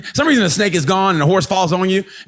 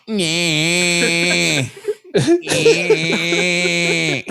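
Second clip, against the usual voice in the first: imitated baby noise. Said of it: "Your baby's retarded".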